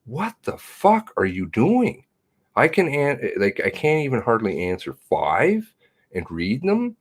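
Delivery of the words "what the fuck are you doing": retold disbelief. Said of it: "I'm like".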